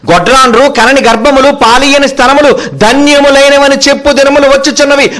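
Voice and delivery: high, sustained recitation of a verse; declaimed scripture. Acted. (గొంతెత్తి వాక్యాన్ని ప్రకటించే స్వరం)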